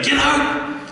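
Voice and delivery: high mock shout; imitating a furious executive yelling; retold yelling. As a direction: bark it out like an angry CEO. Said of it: "He started yelling at me".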